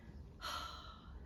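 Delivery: long, breathy sigh out; contented sigh. Acted. Narrator remembering the van ride with Dad, contented sigh. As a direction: let out a soft, savouring sigh.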